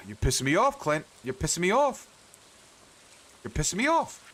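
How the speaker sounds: mock-angry at the blacksmith, rising pitch; building annoyance. Real, not acted. Mounting frustration at Clint.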